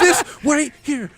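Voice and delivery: slow, high, laughing panic; mock first-timer freaking out; panicky newbie. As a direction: drag it out, overwhelmed and shaky. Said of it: "Just panic attacking".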